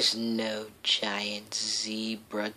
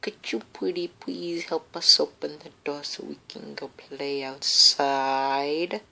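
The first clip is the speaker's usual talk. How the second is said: feigned helplessness; 2 semitones higher, faster than usual. Acted. Begging to open the door.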